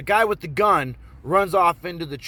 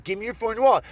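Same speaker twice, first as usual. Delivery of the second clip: higher-pitched insistent mock mugger; acted robber's demand; 6 semitones higher, 3 dB louder, much faster than usual. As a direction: press the order urgently.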